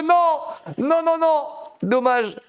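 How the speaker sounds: cri aigu et fort de dépit; cri de déception. Real, not acted. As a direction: hurle ta déception. Player dies after slide. (le caster crie quand le joueur rate sa glissade)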